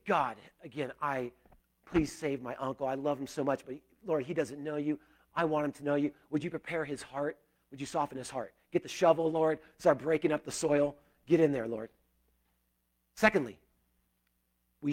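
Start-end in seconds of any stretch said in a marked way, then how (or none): 0.1-11.9 soft, earnest model prayer; a hushed example prayer to God; prayerful. Shown as a demonstration. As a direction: pray it gently, quieter. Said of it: "Prayerfully, we say".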